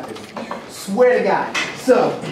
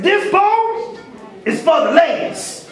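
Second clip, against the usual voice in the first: smooth poet's line; 8 semitones higher, slower than usual. Retold or imitated. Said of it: "the first thing you say".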